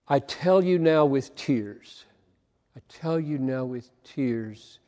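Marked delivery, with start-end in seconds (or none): 2.8-4.8 quiet. Shown as a demonstration. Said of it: "could not get away from".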